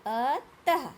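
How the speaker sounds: अतः loud, in two separate syllables with final h; visarga demonstration. Shown as a demonstration. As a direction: lead the class through अतः, sounding the h. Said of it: "चलिए साथ में करते हैं". (अतः तोड़कर, अंत में ज़ोर से ह)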